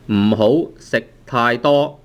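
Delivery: 唔好食太多 spoken slowly, word by word; slow model sentence. Shown as a demonstration. Teacher modelling 唔好食太多 for learners, slowly. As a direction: lay out 唔好食太多 slowly so it can be copied. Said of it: "唔好食太多, 唔好食太多".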